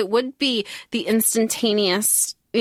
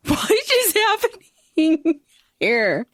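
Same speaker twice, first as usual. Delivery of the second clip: slow, drawn-out bafflement; baffled; 6 semitones higher, much slower than usual. Retold or imitated. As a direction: stretch it out, truly lost. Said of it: "I was like".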